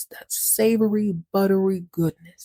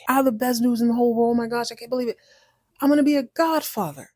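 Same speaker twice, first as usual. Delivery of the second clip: fast, higher-pitched burst of happy news; excited announcement; 4 semitones higher, much faster than usual. Acted. Cat bursting in to tell mouse the best news, excited. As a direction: gush it out in a rush.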